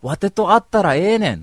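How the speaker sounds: pushy Kansai guy pressing for a date; hammed-up eager Kansai ask; excited Kansai. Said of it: "盛り上がっちゃってさ".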